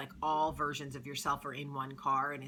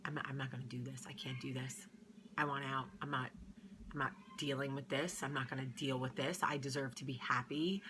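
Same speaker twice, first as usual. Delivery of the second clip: inner voice; 2 semitones lower, 6 dB quieter than usual. Retold or imitated. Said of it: "gone to bed thinking".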